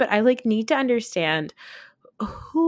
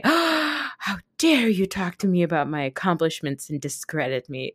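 mock outrage.

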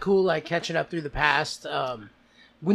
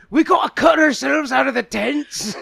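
high, loud laughing Scottish-Russian voice; Scottish Russian accent; 9 semitones higher, 9 dB louder than usual. Acted. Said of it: "a bunch of Russians with Scottish accents".

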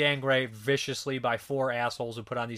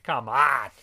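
exasperated; 6 dB louder than usual. Real, not acted. Reviewer fed up with the cheating boyfriend character, exasperated. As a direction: throw it out in disbelief.

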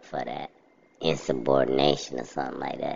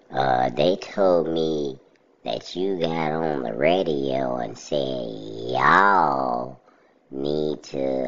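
mocking imitation of my Southern accent; much slower than usual. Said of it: "he tried to do my, uh, my accent".

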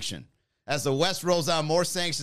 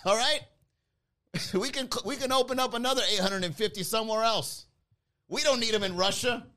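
Ronald McDonald; 8 semitones higher than usual. Pretend. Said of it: "It's like".

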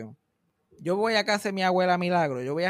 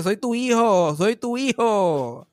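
insisting; 4 semitones higher, 6 dB louder, much slower than usual. Retold or imitated. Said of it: "mi tío le dice".

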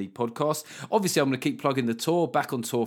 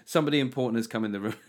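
hammed-up news host brushing him off; mock news host; faster than usual. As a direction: cut him off briskly like a host. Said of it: "when the Lib Dem goes".

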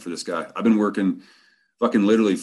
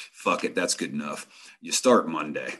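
lightly voiced deep-voiced boss; a hint of the big man's low voice; deep bass voice; 3 semitones lower, 3 dB quieter than usual. Boss hiring on the spot, lightly deep voice. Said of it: "in his deep-ass voice".

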